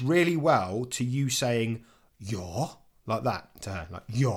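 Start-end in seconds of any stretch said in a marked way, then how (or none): 2.2-2.7 "Yeah" as a low question, rising at the end; fragendes YEAH. Shown as a demonstration. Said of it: "like a question". 4.1-4.3 "Yeah" as a short rising question. Shown as a demonstration. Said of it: "like a question".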